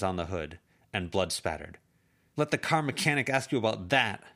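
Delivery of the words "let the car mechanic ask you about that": bitter jab. Acted. Bloodied hand slammed on hood.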